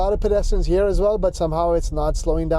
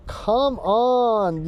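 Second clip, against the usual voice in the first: urgent encouragement; 6 semitones higher than usual. Real, not acted. Urging the car through a turn.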